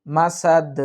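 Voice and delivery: মাসাদ ending on a bounced d, no "in"; qalqalah at a pause. Shown as a demonstration. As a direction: stop on মাসাদ with an echoing দ. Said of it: "তাহলে এখানে উচ্চারণটা হবে".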